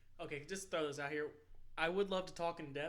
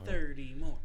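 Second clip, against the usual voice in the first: loud slogan; 10 dB louder, slower than usual. Acted. Chanting a podcast slogan.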